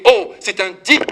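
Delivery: a loud, slow, scandalized "oh"; mock shocked exclamation. Priest mimicking churchgoers shocked by a suitor, loud slow mock outrage. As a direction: play the pious parishioner clutching his pearls. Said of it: "nous on dirait".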